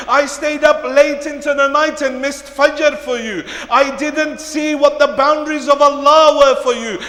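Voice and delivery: forceful sermon delivery, projected and driving; loud, dramatic retelling from the pulpit; impassioned preaching. Acted. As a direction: preach it out to the whole congregation. Preaches at full force, acting dialogue.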